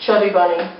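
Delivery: marshmallows stuffing cheeks; mouth full. Real, not acted. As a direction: talk round a full mouth. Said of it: "We have to say Chubby Bunny".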